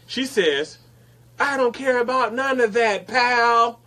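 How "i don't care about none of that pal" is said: higher, louder dismissive retort; mock rude coworker. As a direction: brush him off, pal. Coworker snapping at him.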